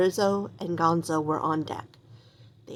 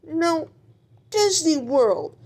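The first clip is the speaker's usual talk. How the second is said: much higher, slow wailing sob; hammed-up sobbing; 9 semitones higher, 4 dB louder, slower than usual. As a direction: wail it out in mock despair. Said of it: "sobbed Polly Lobster".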